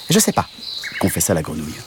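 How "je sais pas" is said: high frog voice; sheepish little frog. Acted. Frog confesses to the cow it doesn't know, high. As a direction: admit it like a small sheepish frog.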